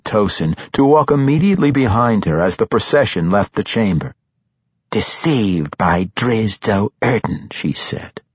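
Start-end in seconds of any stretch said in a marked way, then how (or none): 4.9-7.5 very slow, spat word by word; contemptuous. A narrator's reading. Matron mother turning back to Tosin, spitting contempt. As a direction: spit each word with contempt. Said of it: "she spat every word with utter contempt".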